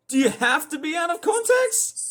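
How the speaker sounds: sharp high whisper of disbelief; exasperated whisper. Real, not acted. Streamer whispering at Otis after yelling, exasperated. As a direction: hiss it out in exasperation.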